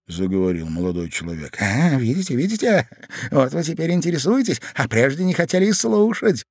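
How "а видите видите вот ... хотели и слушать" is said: high, pointed reproach; rising, worked-up I-told-you-so; triumphant reproach. A narrator's reading. Ivan catching the young man's sudden interest, reproachful.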